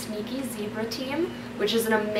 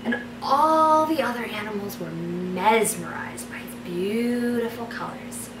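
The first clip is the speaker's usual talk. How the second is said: story narration. Acted. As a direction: read it like a bedtime story. Reads her fairy tale aloud.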